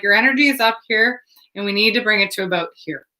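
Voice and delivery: quick, level retold instruction, easing down in pitch; imitating a composed, matter-of-fact steadying talk; demonstrated calming talk. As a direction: talk someone down briskly and evenly. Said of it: "literally saying it like this".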